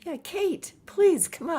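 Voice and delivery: high, coaxing plea; pleading invitation. Real, not acted. Co-host begs a viewer to join the stream, pleading invitation. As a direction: lift the voice and coax sweetly.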